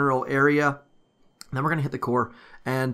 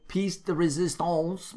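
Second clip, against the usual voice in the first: put-on nasal French accent; 4 semitones higher, 4 dB quieter than usual. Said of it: "my French accent, very, very nasally there".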